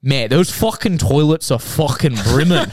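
put-on lightly done Scouser accent, slow and disgusted; a hint of Liverpool disgust at the toilets. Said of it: "in this, like, Scouser accent just goes".

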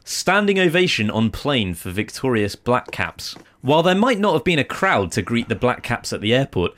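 measured, lilting article reading; news read. Acted. Presenter reading a New Zealand Herald side note, news-read style.

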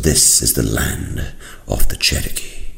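slow, hushed reveal of the land; lightly voiced father, grandly unhurried; a hint of a solemn elder showing his son.

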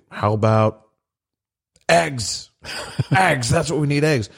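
high goofy planner voice. Retold or imitated. Gaffigan-style planners voiced.

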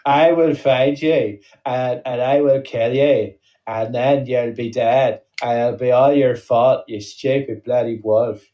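slow, hammed-up threat in a muddled accent; mock action-hero vow, drawn out; Liam Neeson. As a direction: spell out the menace word by word. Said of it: "That's Liam Neeson in that film".

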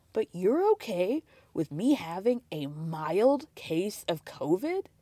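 slow, put-on mopey voice; whiny mock husband. Lightly mimicking Cody complaining to his ex. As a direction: drag it out like a sulking husband. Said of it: "mimicking Cody whining".

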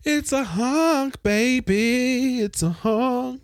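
high, slow, loud hype; hyped, drawn out. Acted. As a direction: stretch it out like a cheer. Hyping the look, drawn out.

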